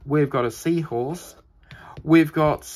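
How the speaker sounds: whispered; hushed whisper. Real, not acted. Crafter naming coaster pieces to viewers, whispered. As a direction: whisper it as you unpack.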